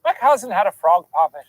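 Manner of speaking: confident Irish accent demo. Shown as a demonstration. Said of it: "do an Irish accent challenge".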